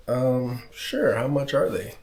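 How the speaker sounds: lightly voiced, hesitant old lady asking the price; voicing old lady. Old lady buying candy.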